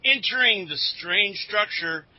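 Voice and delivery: dramatic serial voice-over; announcer narration. Acted. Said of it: "announcer, you wanna quit padding your part".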